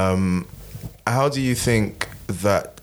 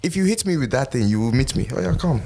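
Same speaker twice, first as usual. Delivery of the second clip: put-on light general African accent; 3 semitones higher than usual. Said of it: "I just did a general African accent".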